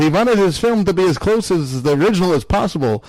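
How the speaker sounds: reading in a Yiddish accent. Shown as a demonstration. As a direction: Yiddish grandpa storytelling voice. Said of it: "let me do it in the Yiddish voice".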